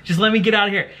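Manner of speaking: a hint of a mother straining to hear; mom shouting over noise. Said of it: "She's like".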